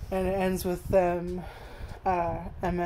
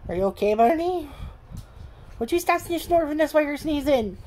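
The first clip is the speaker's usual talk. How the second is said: talking to the dog; 7 semitones higher than usual. Real, not acted. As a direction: tease Barney like a fussing pet owner. Owner scolds and coos at dog.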